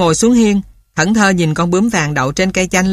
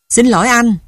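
higher, rasping mynah apology; hoarse bird voice; 5 semitones higher than usual. Acted. Mynah bird apologising to the boy, hoarse croak. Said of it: "Cái giọng khào khào lại cất lên".

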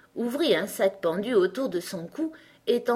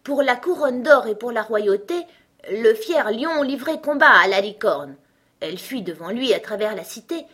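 raised, measured verse recitation; old rhyme recited; 4 semitones higher, 5 dB louder than usual. A narrator's reading. Alice repeats an old song to herself, reciting. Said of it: "les paroles de la vieille chanson".

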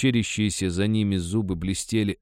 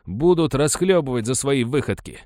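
higher, louder resolve; determined miner; 7 semitones higher, 5 dB louder than usual. A narrator's reading. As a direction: settle it, firm and eager. Miner sets the meeting.

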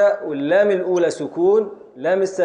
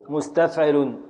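slow scansion; slower than usual. Shown as a demonstration. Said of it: "على وزن".

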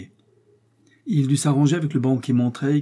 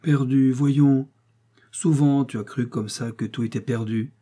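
affectionate; 2 semitones higher than usual. Acted. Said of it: "lui dit affectueusement sa femme".

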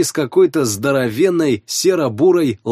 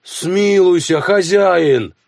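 high, loud desperate plea; begging peasant; 6 semitones higher, 3 dB louder, much slower than usual. Acted. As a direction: beg the master for mercy. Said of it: "взмолился крестьянин".

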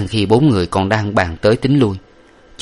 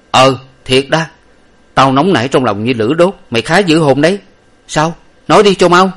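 impatient; 6 semitones higher, 5 dB louder than usual. A narrator's reading. Impatient master.

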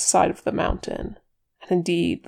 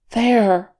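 higher, loud, urgent cry; alarmed exclamation; 4 semitones higher, 8 dB louder than usual. A narrator's reading. Elf hearing a voice in the storm, exclaiming. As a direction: exclaim it as a sudden warning. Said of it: "he exclaimed".

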